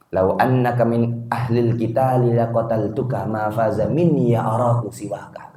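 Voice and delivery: acted threat, measured and fading to a near whisper; mock threat. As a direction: threaten slowly, voice dying away at the end. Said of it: "Langsung ngancem begitu".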